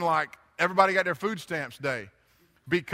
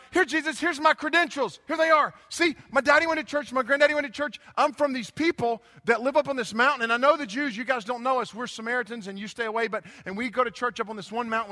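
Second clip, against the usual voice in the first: higher-pitched, hurried show of credentials; eager self-justifying woman; 5 semitones higher than usual. Acted. Samaritan woman showing Jesus her credentials, eagerly self-justifying. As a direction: play her pleading her case, hammed up.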